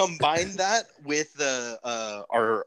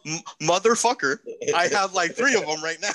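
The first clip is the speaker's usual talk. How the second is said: imitating a friend; 4 semitones higher than usual. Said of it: "You said".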